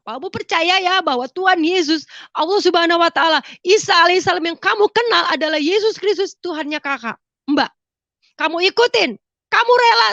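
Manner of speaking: high-pitched, insistent testimony voice; urgent exhortation. Retold or imitated. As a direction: urge her firmly to believe.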